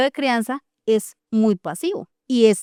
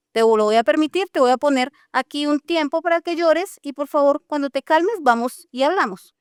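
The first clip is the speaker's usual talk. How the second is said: firm, steady parent setting a limit, higher, no yelling; calm but unbending, draw the line; firm without shouting; 4 semitones higher than usual. Shown as a demonstration. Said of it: "sin gritar, pero obviamente con un tono diferente".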